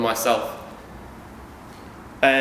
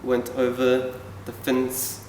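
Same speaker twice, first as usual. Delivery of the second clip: sounded-out reading; 3 dB quieter, slower than usual. Retold or imitated. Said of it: "pronouncing out vowels and sounds".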